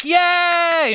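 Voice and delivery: high squealed yay; mock cheer. Imitating the audience cheering, a high squealed yay. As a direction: cheer it like a giddy crowd.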